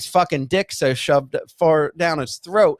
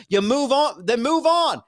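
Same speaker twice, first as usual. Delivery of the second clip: higher-pitched, insistent argument; exasperated; 5 semitones higher, slower than usual. Real, not acted. Arguing over bringing the guest on, exasperated. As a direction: press the point, fed up.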